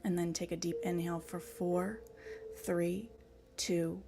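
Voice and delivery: measured breath-count voice with spaced, lilting numbers; guided meditation. Acted. Host guiding an online group through breathing, guided meditation. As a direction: pace each cue to the breath, leaving pauses.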